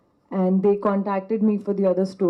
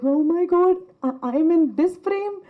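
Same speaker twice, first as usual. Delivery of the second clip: much higher, bright squeal of delight; thrilled exclamation; 9 semitones higher than usual. Retold or imitated. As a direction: gasp it out like you can't believe you're on screen. Retold thrill of seeing herself on the monitor.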